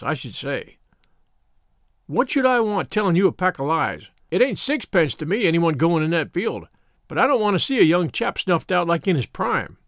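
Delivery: a hint of a rustic countryman remonstrating; understated rustic warning; lightly voiced shepherd. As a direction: reason with a headstrong lad as a country shepherd. Shepherd argues with boy.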